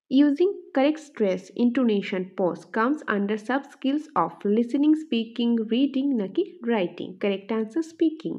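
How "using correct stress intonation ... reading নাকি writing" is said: measured, deliberate quiz reading; slow option reading. Shown as a demonstration. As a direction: read each option out slowly. Reads quiz question and options.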